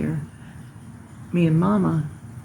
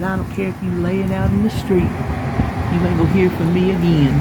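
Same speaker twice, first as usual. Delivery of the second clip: retold holler; 4 dB louder than usual. Telling off the neighbor woman from the porch, loud hollered retort. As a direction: voice rising to a louder hollered retort across the yard. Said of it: "And I hollered back over to her".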